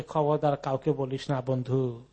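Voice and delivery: low, soft word to a friend; quietly retold caution between friends; confidential warning. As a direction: drop the voice to swear a friend to secrecy. Friend told to keep a secret.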